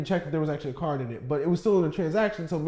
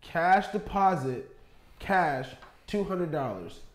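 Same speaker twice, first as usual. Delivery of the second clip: machine voice; much slower than usual. Retold or imitated. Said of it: "That bitch says".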